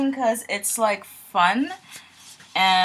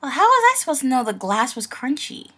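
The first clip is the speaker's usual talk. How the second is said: indignant protest; 4 dB louder, faster than usual. Acted. Retake of the acted protest.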